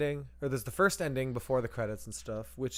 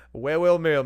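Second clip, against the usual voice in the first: mock villain greeting; 3 semitones higher, 9 dB louder, slower than usual. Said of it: "it's like".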